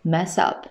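"mess up" joined with no gap; linked pronunciation. Shown as a demonstration. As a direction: say "mess up" as one linked word. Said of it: "注意到它的连读".

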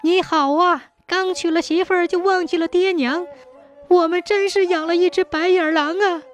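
high-pitched parent's indignant reproach; angry and agitated. A narrator's reading. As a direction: berate your son in a high, aggrieved voice. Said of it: "又气又急地说".

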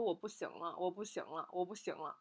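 barely audible, drained and fading; faint weak plea. Retold or imitated. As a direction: repeat it weakly, with no strength left. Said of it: "用尽了我最大的力气在说".

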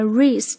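"is" said as ris; linked with r. Shown as a demonstration. Teacher isolating the linked sound. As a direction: put an r on the front of "is". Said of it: "变成了is这样的一个感觉".

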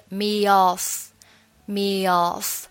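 me off with a y sound, "me yoff"; linked y glide. Shown as a demonstration. Teacher showing a linking glide, slowly: "me off" as "me yoff". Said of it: "中间还是加一个也的半元音".

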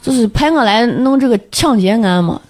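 light Shaanxi dialect, dad quoted; Shaanxi accent. Retold or imitated. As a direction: Shaanxi accent, retold father. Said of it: "我就用陕西话说啊".

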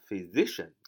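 "physician" with the weight on the "si", a z sound; stress on second syllable. Shown as a demonstration. Teacher showing where "physician" is stressed, second-syllable stress on the z sound. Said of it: "重音在Z那儿啊".

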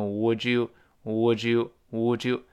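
"would you" merged into wood-joo; "would you" as one word, wood-joo; linked reading. Shown as a demonstration. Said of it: "读成would you".

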